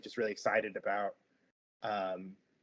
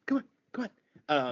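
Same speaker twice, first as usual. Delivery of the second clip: faster, louder come on, come on; hurrying mom; 3 semitones higher, 6 dB louder, faster than usual. Acted. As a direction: push the kids along quickly. Mother hurries kids.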